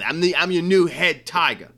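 lightly put-on Southern accent; Brian Kelly southern accent. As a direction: imitate a coach with a touch of Southern twang. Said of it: "putting me in my southern accent".

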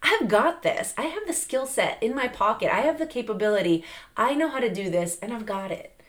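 firm, strong declaration; confident comeback instead of a weak one; powerful and confident. Shown as a demonstration. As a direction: say it like you own it. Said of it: "powerfully come back and be like".

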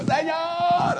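high, drawn-out imitation wail; hammed-up cry of a frantic worshipper; mock scream. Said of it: "people would scream like".

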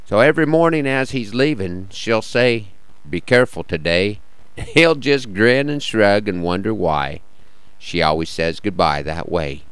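measured cowboy poetry reading; cowboy poem recital. Acted.

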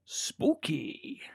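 mock-eerie whisper, pitched for effect; spooky whisper. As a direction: whisper it like a ghost story. Mock eerie reaction to the picture.

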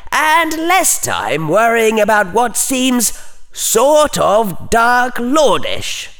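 high, slow, icy mockery; withering put-down. A narrator's reading. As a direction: drag out the mocking phrase slowly. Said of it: "Slytherin said icily".

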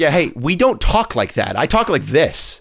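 slow, put-on Vancouver drawl; mock Vancouver talk, words stretched out; Vancouver accent. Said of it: "people from Vancouver that talk like this".

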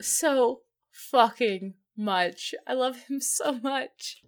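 slow, drawn-out words; slow, heartfelt fan emphasis; emphatic gushing. Real, not acted. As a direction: stretch out each word for emphasis. Gushing over a favourite character.

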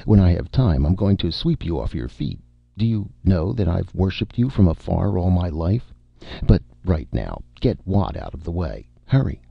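lightly acted declaration turning to urgency; ardent suitor in a hurry. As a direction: sweep them off their feet, then hurry them out. Acted dialogue in narration.

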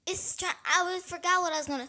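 boomy, too close to the microphone; too close to mic. Real, not acted. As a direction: mouth right on the mic. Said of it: "Why are you talking so close to the microphone?".

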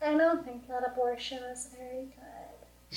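put-on soft, hushed baby voice; small meek babyish voice, very softly; Amy Coney Barrett. Host imitates a judge at her hearing, soft baby voice. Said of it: "has, like, a baby voice".

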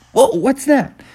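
high, surprised bear cub voice; a small bear ducking in surprise; startled little bear. Acted. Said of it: "and Bubby said".

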